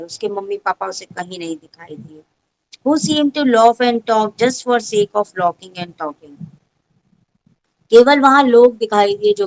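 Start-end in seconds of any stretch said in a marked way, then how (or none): 2.9-6.4 very slow, every word set apart; teacher reads the story aloud to pupils, very slow; slow textbook reading. Shown as a demonstration. Teacher reads English text.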